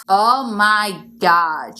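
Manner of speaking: slow, drawn-out oh my God; exasperated. Acted. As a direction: sigh it out, fed up.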